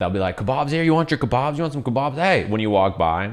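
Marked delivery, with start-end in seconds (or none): 0.4-2.1 harassing, pushy street-seller patter, pitched up. Retelling how street vendors called out to passersby: imitating pushy kebab vendors. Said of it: "the kebab guys will harass you".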